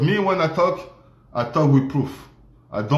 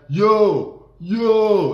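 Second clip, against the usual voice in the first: mock hype call; 7 semitones higher, 3 dB louder than usual. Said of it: "like this".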